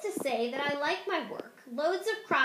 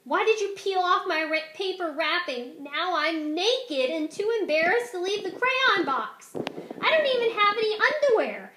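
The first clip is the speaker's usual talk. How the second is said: rising high and loud, frantic and embarrassed; panicked plea; 5 semitones higher, 6 dB louder than usual. Acted. Peach Crayon pleading with Duncan for clothes, frantic loud cry. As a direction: beg for help in a mounting panic.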